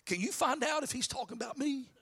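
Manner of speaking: hushed question to the one beside you; confidential aside. Acted. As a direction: lean over and ask softly. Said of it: "Peter leans over to one of the other disciples".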